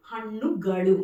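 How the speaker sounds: హన్నుగలు slowly, with retroflex nn and l; careful slow హన్నుగలు, l as ళ. Shown as a demonstration. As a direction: model హన్నుగలు firmly, tongue curled back. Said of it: "అనా పలుకుతారు అక్కడ".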